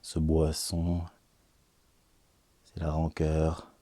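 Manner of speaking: slow, solemn recital of dark verse; weighty pauses between slowly spoken lines; poetry reading. Acted. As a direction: declaim it gravely, stretching each phrase. Reads the final poem.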